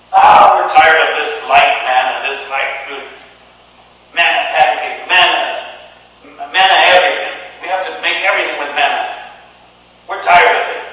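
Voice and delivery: exasperated whining people; mock complaining. Israelites moaning about manna to God, mock grumbling. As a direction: moan about the manna, hammed-up. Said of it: "And they start complaining".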